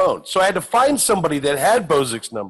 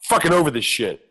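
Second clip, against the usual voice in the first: weary stripper. Retold or imitated. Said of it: "I feel like a stripper".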